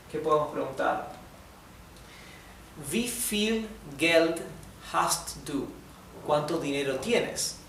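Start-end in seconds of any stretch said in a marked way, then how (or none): 2.9-5.7 Wie viel Geld hast du? slow, Wie leaned on; drawn out Wie viel Geld hast du?; slow model sentence. Shown as a demonstration. Teacher slowly models Wie viel Geld hast du? for students. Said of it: "model sentence, first take".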